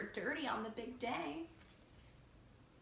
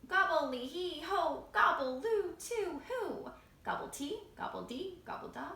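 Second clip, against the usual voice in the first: louder, sing-song gobbling at first, then softening; loud gobble song; 4 semitones higher, 4 dB louder than usual. Acted. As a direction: belt out the gobble chant. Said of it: "let it all fly out".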